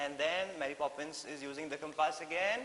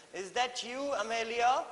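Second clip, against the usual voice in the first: high and louder, calling across the shore; Mary Poppins calling to the dolphin, raised voice; 8 semitones higher, 7 dB louder than usual. A narrator's reading. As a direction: call out to the dolphin. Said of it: "called Mary Poppins".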